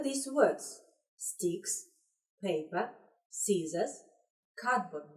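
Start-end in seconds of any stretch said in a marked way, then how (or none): none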